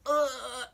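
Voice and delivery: imitated groan. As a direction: let out an "ugh" of release. Voices the masculine's climactic release.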